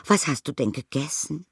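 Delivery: high, delighted motherly voice; high, fond exclamation; Mrs Brown charmed. A narrator's reading. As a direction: coo over the little bear, pitched well up. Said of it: "rief Misses Brown".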